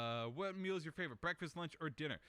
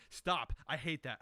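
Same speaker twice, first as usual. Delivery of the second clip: louder, annoyed snap; real irritation rising; getting mad; 6 dB louder than usual. Real, not acted. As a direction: shut it down, irritated. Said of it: "I'm getting mad right now".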